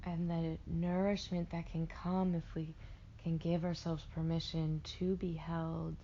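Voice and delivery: slow meditation voice, long pauses between phrases; guided meditation. Acted. Meditation guide helping listeners float in warm water, slow guided delivery. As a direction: lull them into rest with drawn-out words.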